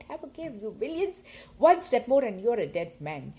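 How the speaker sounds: hoog inzettend, dan luid en dreigend; dreigende kreet. Acted. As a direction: schreeuw de schurken toe als een dappere jongen. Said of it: "I shout".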